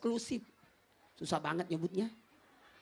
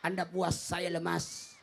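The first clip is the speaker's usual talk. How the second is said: low, soft and slow; weary; 5 semitones lower, 3 dB quieter, slower than usual. Acted. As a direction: sigh it out tiredly. Repeated tired punchline.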